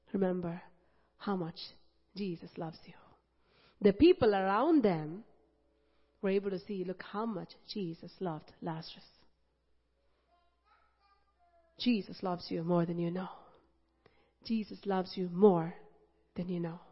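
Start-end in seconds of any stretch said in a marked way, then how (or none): 0.1-2.9 soft, hushed assurance; tender reassurance. Real, not acted. 6.8-16.8 soft, hushed assurance; tender reassurance. Real, not acted.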